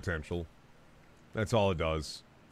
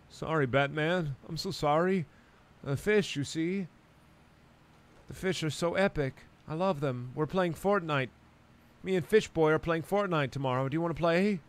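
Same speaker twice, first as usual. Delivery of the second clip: a hint of a goofy Aquaman, higher and eager; 5 semitones higher than usual. Aquaman apologizing to Batman, lightly voiced and higher. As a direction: lightly play a dopey fish-loving hero.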